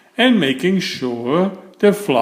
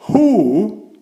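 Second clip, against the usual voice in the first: high, louder spluttered who; 7 semitones higher, 3 dB louder than usual. A narrator's reading. Fussy man sees his broken gate, spluttering high and louder. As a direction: splutter it out in shock. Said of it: "spluttered Mister Fussy".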